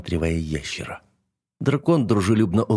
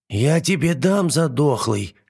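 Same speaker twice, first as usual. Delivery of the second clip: higher, slow squeaky screech; squeaky little dragon; 6 semitones higher, slower than usual. A narrator's reading. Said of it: "тоненьким голосом заверещал ящер".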